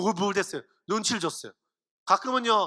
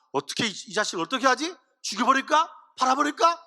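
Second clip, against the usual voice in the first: deliberating brothers; 2 semitones higher than usual. Acted. Brothers debate Joseph's fate, agitated deliberation. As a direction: voice the brothers weighing what to do. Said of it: "고민하는 거예요".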